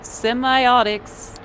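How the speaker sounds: high, loud, slow chirpy AI voice; bright stretched assistant read; virtual assistant voice. Acted. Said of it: "lets virtual Kara repeat the password".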